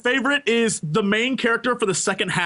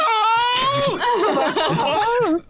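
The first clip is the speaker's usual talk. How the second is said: mock battle cry; 14 semitones higher than usual.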